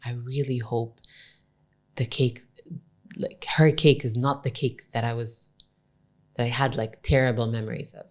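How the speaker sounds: hushed, low-key imitation of whispering; retold whisper. Guy confides dread to his friend, retold whisper. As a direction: voice it softly, as if aside. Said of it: "he whispers to his friend".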